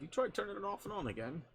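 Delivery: lightly voiced TV catchphrase; quoted catchphrase.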